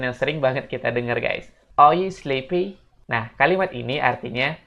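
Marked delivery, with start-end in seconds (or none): 1.8-2.8 slow model question. Shown as a demonstration. Teacher models English phrase.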